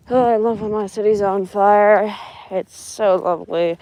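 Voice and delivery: mock-enthusiastic praise; sarcastic. Real, not acted. Vlogger remarking on the city being on fire, sarcastic. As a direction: say it as dry sarcasm, feigning fondness. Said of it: "That's sarcasm, by the way".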